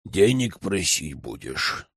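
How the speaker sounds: low, slow and wary; a lightly voiced grumbling old man; suspicious elder. A narrator's reading. (медленно и подозрительно, лёгкий голос старика)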